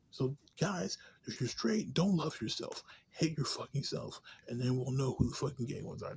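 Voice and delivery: sarcastic mock sermon.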